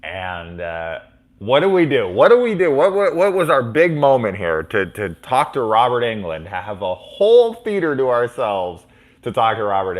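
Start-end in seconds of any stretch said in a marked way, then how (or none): 1.4-6.4 much higher, louder frantic questions; frantic kid working up nerve; panicked excitement. Retold or imitated. Boy to older brother, frantic and loud. Kids panicking before approaching Robert Englund.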